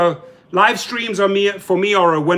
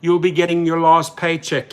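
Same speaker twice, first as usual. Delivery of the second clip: mocking executive. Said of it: "reads off a script and says".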